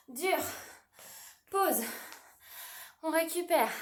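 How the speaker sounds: loud coach call over music. Real, not acted. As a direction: call the break loudly. Coach calling end of set.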